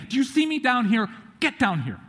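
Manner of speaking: restrained retold yell, starting high; exasperated dad's shout, held back; mock shouting. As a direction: imitate calling up a slope. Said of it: "So I'm shouting, screaming".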